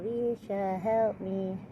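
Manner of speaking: high-pitched imitated call for help; imitated plea. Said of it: "They go".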